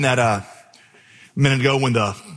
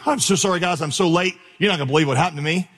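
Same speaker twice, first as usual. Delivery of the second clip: mock breathless apology; 2 semitones higher, faster than usual. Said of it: "I'm out of breath".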